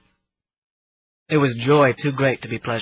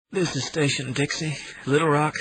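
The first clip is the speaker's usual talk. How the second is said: tired Southern voice; 3 semitones higher, 3 dB quieter than usual. Acted. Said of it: "a very tired Southern voice said".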